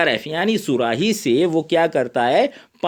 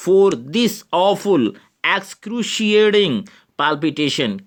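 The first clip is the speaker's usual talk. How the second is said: mild suffering; 4 semitones higher, much slower than usual. Acted. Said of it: "Lomov's dialogue".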